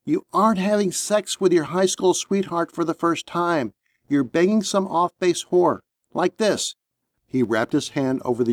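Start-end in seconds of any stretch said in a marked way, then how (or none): 0.0-6.8 a touch sharper, scolding; lightly sharpened, instructing a rookie. Acted. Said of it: "sharpened his voice".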